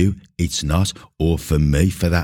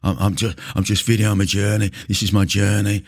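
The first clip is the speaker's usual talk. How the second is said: mock gym bro; 4 semitones higher than usual. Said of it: "you hear them talking".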